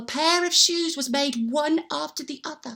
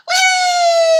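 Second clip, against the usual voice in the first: high, loud swooping whee; gleeful whee; 9 dB louder than usual. Acted. Little men sliding down the chimney, a loud high whee. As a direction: slide down on a big happy whee.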